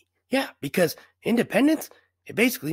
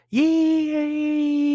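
excited; 7 semitones higher than usual. Acted. Cheering on a boat.

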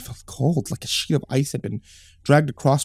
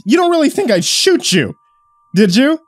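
mocking laugh-talk; 12 semitones higher, 8 dB louder than usual. A narrator's reading. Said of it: "He laughed".

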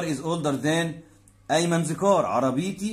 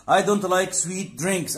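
slow teaching read; 4 semitones higher, much slower than usual. Shown as a demonstration. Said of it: "teacher reads English example".

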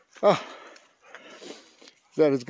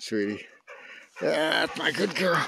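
tender praise. Real, not acted. Praising the dog.

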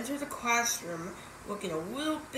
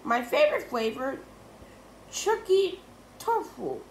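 teacher voice; 7 semitones higher, 5 dB louder than usual. A narrator's reading.

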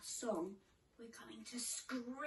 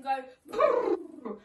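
shivery brrr; 12 dB louder than usual. Shown as a demonstration. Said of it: "Can you practice that with me?".

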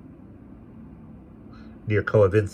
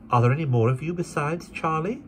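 put-on higher gentle young woman; young lady; 9 semitones higher than usual. A narrator's reading. Esther questions the boy.

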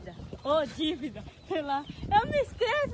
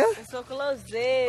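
proud shout; 13 dB louder, slower than usual. Acted. Proclaims herself on request.

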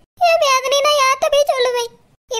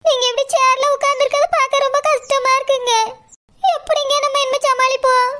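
tearful, slightly raised, voice strained; crying wife; 2 semitones higher than usual. Acted. Wife crying over her husband in the wheelchair. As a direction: lament seeing him in the chair. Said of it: "Saroja அழாதம்மா".

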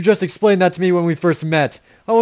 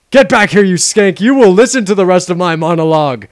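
shouting; 6 dB louder than usual. Acted. Yelling after departed companion.

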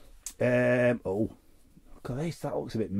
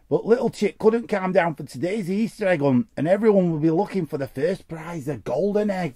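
lively read-aloud storytelling; story reading; 3 semitones higher than usual. Acted. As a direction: read it like a bedtime story to kids. Reads a children's story card.

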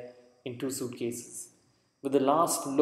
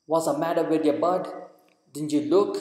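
loud, higher, rough policeman's yell; crude shout; 3 semitones higher, 6 dB louder than usual. Acted. Policeman yelling at a stopped newcomer, loud and crude. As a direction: bark it at the stranger on the sidewalk. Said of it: "said a crude voice behind me".

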